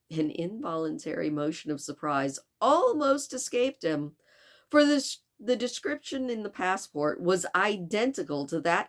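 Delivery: animated, clearly projected audiobook reading; story narration. A narrator's reading. Narrator tells listeners of the steamer's arrival, story narration. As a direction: read the adventure aloud with lively emphasis.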